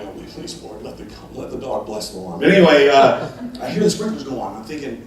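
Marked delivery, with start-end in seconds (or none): 0.0-2.4 mock prayer. Praying the dog pees.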